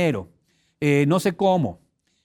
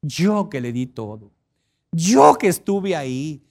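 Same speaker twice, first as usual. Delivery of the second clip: bitter jilted lover; slower than usual. Pretend. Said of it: "no empieces".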